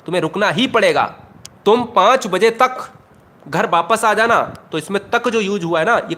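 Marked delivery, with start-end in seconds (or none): 0.1-1.2 "ही" made the strongest word; ही पर जोर. Shown as a demonstration. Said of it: "तो ही". 1.7-4.4 emphatic order, weight on "पाँच बजे तक"; जोर देकर. Shown as a demonstration. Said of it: "हम जोर देकर कह रहे हैं".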